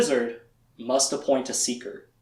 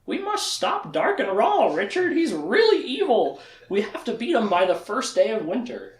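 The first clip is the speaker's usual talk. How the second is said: dramatic Char voice; 5 semitones higher than usual. Retold or imitated. Recapping the show, speaker voices Char urging Richard solemnly. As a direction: voice Char like a grave oracle. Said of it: "and it's like".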